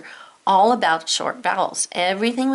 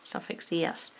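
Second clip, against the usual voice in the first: spelling aloud; 5 dB quieter, much slower than usual. Shown as a demonstration.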